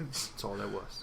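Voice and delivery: put-on dodgy British accent. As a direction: wrap up quietly in an amateur British accent. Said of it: "this is my British accent".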